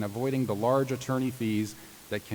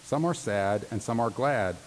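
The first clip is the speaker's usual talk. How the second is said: sing-song Seuss reading. Acted. Reading Dr. Seuss to law graduates, sing-song. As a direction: read it like a bedtime picture book. Reads Dr. Seuss poem aloud.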